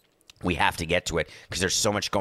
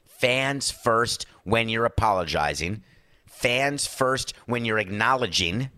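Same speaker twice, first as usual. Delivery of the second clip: slow emphatic lesson; slower than usual. Shown as a demonstration. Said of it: "teaching PR people".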